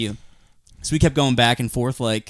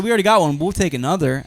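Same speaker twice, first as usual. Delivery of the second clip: joking; 4 semitones higher, faster than usual. Retold or imitated. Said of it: "I jokingly said".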